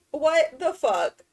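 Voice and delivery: drawn-out, weary disbelief; slow, stretched exasperated groan; slow exasperation. Real, not acted. Repeating the outburst.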